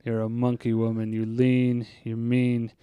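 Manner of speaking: lightly voiced daft groundskeeper; Carl. Groundskeeper narrating to Missus Crane, lightly voiced low ramble. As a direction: swell on the oohs, then sink back into low murmuring. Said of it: "get in the Carl space".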